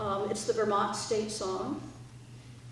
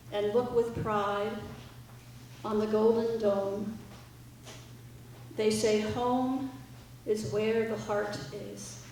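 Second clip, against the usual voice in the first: reciting lyrics. Acted. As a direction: read the lyrics like a solemn poem. Reads song lyrics aloud.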